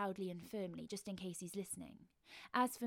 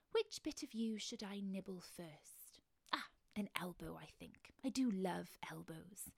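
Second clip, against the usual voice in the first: creepy savouring monster. Acted. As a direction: gloat over the meal, hushed. Monster choosing what to nibble.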